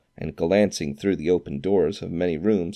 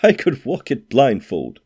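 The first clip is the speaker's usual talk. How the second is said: louder, higher eager exclamation; fervent cry; 7 semitones higher, 5 dB louder than usual. A narrator's reading. Scrooge answers the ghost with fervour. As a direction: burst out with fervour. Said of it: "cried Scrooge with fervour".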